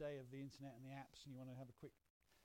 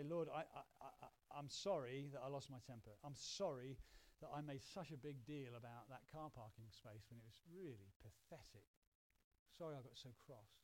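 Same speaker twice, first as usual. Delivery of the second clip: apologetic prayer; 2 semitones lower than usual. Shown as a demonstration. Penitent saying sorry to God for losing their temper, apologetic. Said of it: "Say to God you're sorry".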